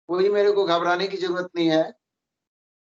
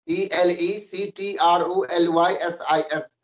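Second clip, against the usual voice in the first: spelling out letters; slower than usual. Shown as a demonstration. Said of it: "word में".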